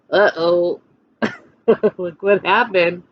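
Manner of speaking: ordinary delivery, nothing marked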